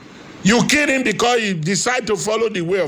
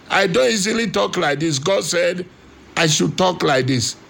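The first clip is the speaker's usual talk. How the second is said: unusual preaching voice; 2 semitones lower than usual. Real, not acted. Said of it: "this voice you are hearing today".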